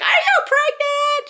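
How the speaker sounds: drawn-out, very high screech; loud, slow mock scream; imitated screaming. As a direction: mimic an excited mom screaming down the phone. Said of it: "She's just, like, screaming".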